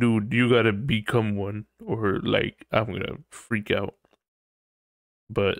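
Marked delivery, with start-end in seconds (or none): none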